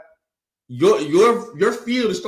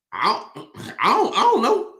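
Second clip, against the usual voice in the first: disrespectful; 3 semitones higher than usual. Acted. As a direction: act out a careless brush-off, pitch jumping up. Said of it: "That's a disrespectful term".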